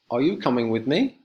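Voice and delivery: "me" lifted up at the end; teacher showing a rising question pattern; rising question tune. Shown as a demonstration. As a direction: let the yes-no question climb at the end. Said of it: "interrogative sentences have two intonation patterns".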